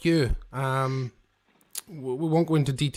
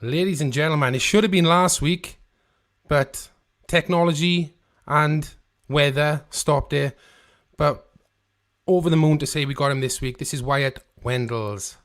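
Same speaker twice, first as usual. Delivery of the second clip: announcer's build-up, louder; guest announcement; 3 dB louder than usual. Acted. Host announcing the guest to the listeners like a compere.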